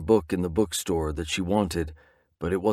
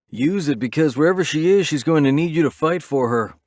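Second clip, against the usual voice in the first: higher, pushing voice of Knives; rally him to fight, pitched higher; urging comrade; 7 semitones higher, 4 dB louder than usual. Acted. Knives urging the grieving narrator.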